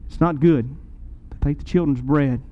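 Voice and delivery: low, understated kindly delivery; retold gentle compassion. Jesus answers the pleading mother, retold with low compassion. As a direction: let kindness sit under the hard words, pitched low. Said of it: "spoken with such kindness and compassion".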